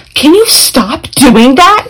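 slow, high, laughing mock whine; mock rude girl. Mocking a classmate who told the teacher off, laughing. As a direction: imitate a rude classmate while cracking up.

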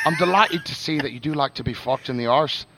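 James Joyce's letter in a put-on accent; Southern-style accent. Reading Joyce's letter to Nora, put-on Southern-style accent. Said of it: "you can just do the Southern".

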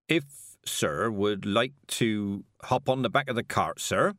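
slow, deferential carter voice; a wary carter humouring a rich stranger; careful carter. Acted. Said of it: "he said, carefully".

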